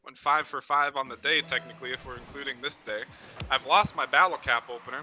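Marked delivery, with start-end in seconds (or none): 3.5-5.0 tipsy mumble; slurred speech. Real, not acted. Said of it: "I'm already slurring my words".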